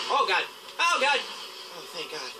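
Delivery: panicked, then sighing with relief; scared then relieved. Real, not acted. Almost fell off, then safe.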